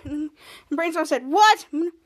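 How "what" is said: high, loud puzzled yelp; mock startled what. Brainstorm reacts to the villain in a high startled yelp. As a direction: blurt it in cartoon disbelief.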